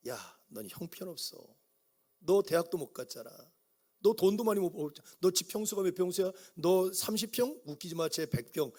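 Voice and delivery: a scornful inner voice, lightly put on; sneering accuser. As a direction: belittle him with a sneer. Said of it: "이런 거 가지고".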